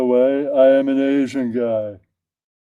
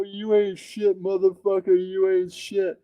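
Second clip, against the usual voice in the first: friend's insult; 6 semitones higher, 6 dB quieter than usual. Retold or imitated. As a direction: drag out the insult mockingly. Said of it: "And then he like".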